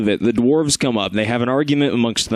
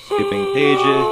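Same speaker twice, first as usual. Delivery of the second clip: very high, slow call; shouted announcement; much slower than usual. Real, not acted. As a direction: sing out the page skip. Shouted aside.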